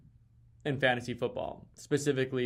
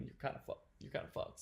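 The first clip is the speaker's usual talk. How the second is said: breathy whisper, much softer; whispered aside; 14 dB quieter, faster than usual. Real, not acted. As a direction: drop it under your breath. Muttered punchline aside.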